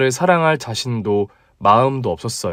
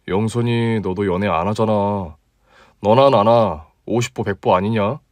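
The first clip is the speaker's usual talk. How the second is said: a touch lower, relaxed guy talking to a friend; easygoing male colleague, slightly deeper; 3 semitones lower than usual. Acted. Male lead replying. (조금 낮고 편안한 남자 목소리)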